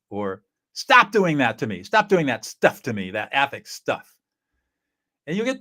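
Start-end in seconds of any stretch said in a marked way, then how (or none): 0.7-4.2 louder, firm protest; annoyed pushback. Retold or imitated. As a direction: tell them to stop. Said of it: "somebody will say something like".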